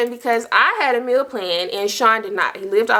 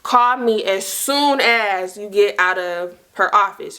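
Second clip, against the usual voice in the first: slow, deliberate word-by-word emphasis; measured, insistent retelling of a text; all-caps text; slower than usual. Retold or imitated. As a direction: read out an urgent all-caps text, spacing the words. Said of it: "texts me back in all caps".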